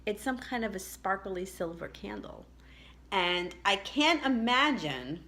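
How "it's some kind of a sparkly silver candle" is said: whispering. Real, not acted. Reads out what she found.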